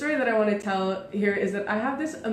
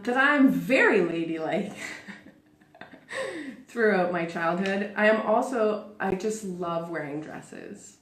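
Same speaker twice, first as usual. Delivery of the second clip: sarcastic. Real, not acted. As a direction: lay the sarcasm on, then play it straight. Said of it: "being super sarcastic right now".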